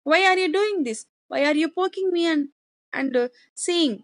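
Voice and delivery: high, fast, exasperated questioning; hammed-up annoyed father; angry father. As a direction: demand an answer like an irritated father. Teacher acts angry father.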